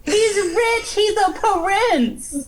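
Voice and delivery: high, loud laughing protest; high and loud through laughter; playful insistence. Acted. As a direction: insist he's rich, half laughing. Insisting the prince can afford eggs.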